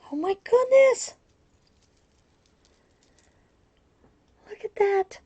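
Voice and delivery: high, loud gasp of delight; delighted squeal. Real, not acted. Crafter marvelling at a gift of painted buttons, delighted squeal. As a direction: squeal it, thrilled and high-pitched.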